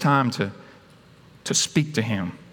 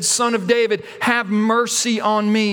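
higher call, slowing into a drawn-out plea; crying out; 4 semitones higher than usual. Acted. Beggar persisting despite the hushing, crying out slowly. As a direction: call for mercy with insistence. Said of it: "Cry out all the more".

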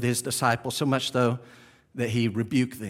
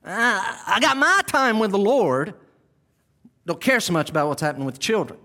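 high, loud self-satisfied disciple; selfish disciple voice; 6 semitones higher, 3 dB louder than usual. Acted. Preacher mocks a selfish disciple, high and smug.

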